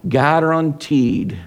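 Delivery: slow, drawn-out southern TV host drawl; a light imitation of a southern accent. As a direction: stretch Guaranteed? out like a southern cooking show host. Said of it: "uh, southern accent".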